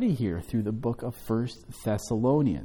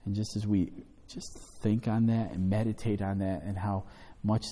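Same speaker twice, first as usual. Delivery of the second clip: earnest, hushed closing prayer; 3 semitones lower than usual. Acted. Pastor prays for the congregation after the study, hushed and earnest.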